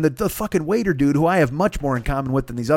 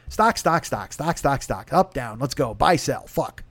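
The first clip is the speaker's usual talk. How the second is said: muttered mock stockbroker jargon, softer; fake rich talk; 4 dB quieter, slower than usual. Comic faking rich talk at the sushi table, softer mock jargon. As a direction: rattle off rich-guy market talk under your breath. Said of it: "I can fake rich talk".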